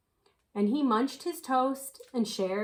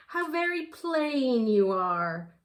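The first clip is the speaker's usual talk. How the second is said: groaning; 2 semitones higher than usual. Acted. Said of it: "groaned the green".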